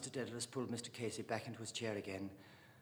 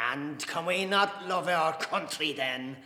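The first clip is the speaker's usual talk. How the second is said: challenging question; 4 semitones higher, 8 dB louder, slower than usual. Acted. Mister Casey challenges Dante.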